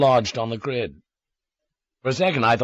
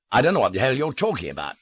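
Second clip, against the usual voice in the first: frightened protest; 3 semitones higher, faster than usual. A narrator's reading. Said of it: "The fear was making me sob".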